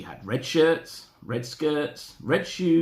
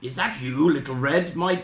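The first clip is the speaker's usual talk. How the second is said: wrong voice for Granny; 3 semitones higher, 3 dB louder than usual. Acted. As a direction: start a character voice, pitched near your own. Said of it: "wrong voice".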